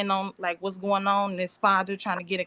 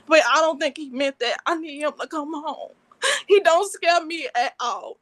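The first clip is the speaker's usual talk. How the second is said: tearful pleading, voice breaking into sobs; crying while begging for him; real crying; 6 semitones higher than usual. Real, not acted. Pregnant girlfriend pleads to the judge, crying. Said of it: "because I'm upset".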